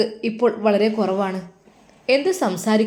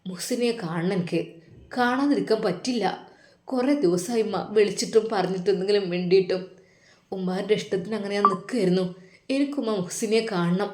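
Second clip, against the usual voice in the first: softer tearful insistence; a son near tears insisting to his mother; 3 semitones lower, 6 dB quieter than usual. Acted. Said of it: "അവൻ്റെ കണ്ണുകൾ നിറയുന്നത്". (കണ്ണീരോടെ മൃദുവായ നിർബന്ധം)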